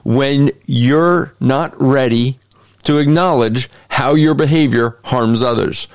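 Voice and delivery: deliberate reread of a saying; slow emphatic reread. Shown as a demonstration. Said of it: "So I'll read it again".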